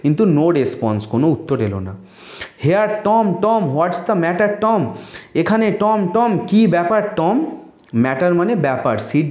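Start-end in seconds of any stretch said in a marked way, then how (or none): 2.6-7.5 worried call. Acted. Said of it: "সিড টমকে জিজ্ঞেস করছে".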